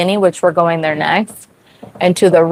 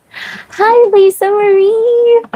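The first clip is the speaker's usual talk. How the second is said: much higher, bright hello to a viewer; high excited greeting; 14 semitones higher, slower than usual. Real, not acted.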